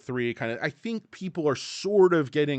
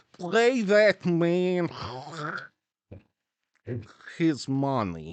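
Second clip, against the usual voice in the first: put-on loud, high, hugely drawn-out Russian accent; exaggerated Russian accent; 4 semitones higher, 3 dB louder, much slower than usual. Quoting KGB from Rounders, hammed-up Russian accent. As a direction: ham up the Russian villain, dragging each word. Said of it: "is that a Russian accent you're doing there".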